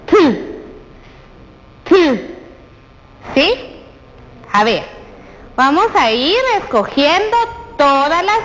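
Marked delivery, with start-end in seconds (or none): 0.0-2.4 T said as a crisp, isolated consonant; sound T. Shown as a demonstration. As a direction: model the T sound for the child.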